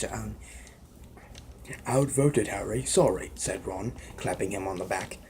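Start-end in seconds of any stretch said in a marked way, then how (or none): 1.9-3.3 put-on a light British accent for Ron; easy British accent, casual tone. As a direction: read Ron's apology in a British accent. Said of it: "that's my British accent".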